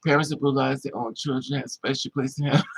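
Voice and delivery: normal talking voice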